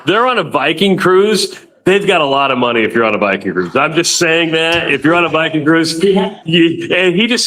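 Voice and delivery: slightly tipsy, a little slurred. Real, not acted. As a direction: talk like a few glasses of wine in. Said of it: "I'm really hammered right now".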